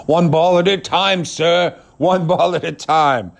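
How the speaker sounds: a servant pleased to obey; servile media guy. Retold or imitated. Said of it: "Bob Pompiani down there sucking".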